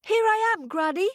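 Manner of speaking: high, faltering, scared voice; frightened girl. A narrator's reading. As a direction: stammer it out in fear. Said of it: "who was shaking with fear".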